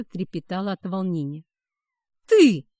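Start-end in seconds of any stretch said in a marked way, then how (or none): 2.3-2.7 much louder, higher furious snarl; sinister snarl. A narrator's reading. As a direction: snarl the single word. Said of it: "оборотень зарычал так зловеще".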